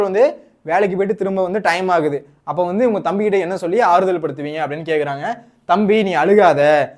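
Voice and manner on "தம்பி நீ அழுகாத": very slow, stretched-out plea; slow acted comforting of little brother; drawn-out consoling. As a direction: draw out each word to console a child. Model answer consoling crying brother.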